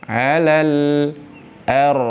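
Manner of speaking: "Alal ar" with a clear l; recitation demo. Shown as a demonstration. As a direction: sound the l in "Alal" plainly and clearly. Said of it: "Lam matinya dibaca jelas".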